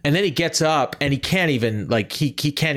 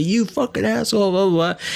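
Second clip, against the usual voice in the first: high-pitched mock yell of an angry driver; raised-pitch road rage imitation; retold screaming; 9 semitones higher than usual. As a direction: imitate a ranting stranger, voice pitched way up. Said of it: "he's screaming at me".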